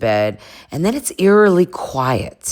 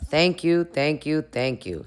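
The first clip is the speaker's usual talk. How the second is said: fading thanks; 6 dB quieter than usual. Real, not acted. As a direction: let the thanks melt away to nothing. Grateful thanks, fading away.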